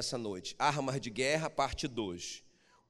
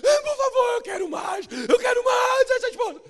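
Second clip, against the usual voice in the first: very high, loud hammed-up wail; mock wailing; 9 dB louder than usual. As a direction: overplay the complaining husband. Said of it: "Você tá clamando". (lamento escandaloso)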